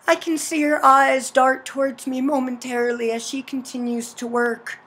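measured visual-novel narration; story narration. A narrator's reading. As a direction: read the game's narration aloud in an even storytelling voice. Reads game narration aloud.

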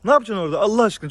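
fast, loud, exasperated question at the animal; what on earth are you doing, rattled off; exasperated scolding. Real, not acted. Man scolding his goat for knocking crates over, fast and exasperated.

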